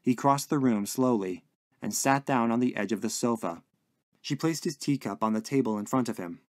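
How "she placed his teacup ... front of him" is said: ordinary delivery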